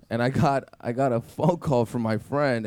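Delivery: ordinary talk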